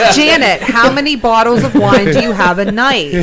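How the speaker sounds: high, loud mock indignation. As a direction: needle her with a shrill jab. Mocking question to wine drinker.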